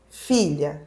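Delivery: slow, measured calling voice; slow retold summons; retold divine voice. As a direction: imitate God calling, drawing out the words. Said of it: "Aí ele falou assim".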